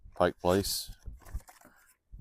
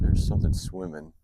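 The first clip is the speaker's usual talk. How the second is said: sudden high, loud call of discovery; excited; 10 semitones higher, 7 dB louder than usual. Real, not acted. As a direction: blurt it out, spotting something moving. Spots an animal in the lake.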